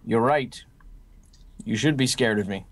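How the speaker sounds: deadpan, level delivery; straight-faced. Acted. Ghoul answers his nervous new friend, deadpan. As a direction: say it with a straight face, no reaction. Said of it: "just this straight face".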